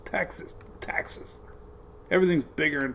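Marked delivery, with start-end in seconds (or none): 0.0-1.4 whispering. Pretend. Whispering the state name.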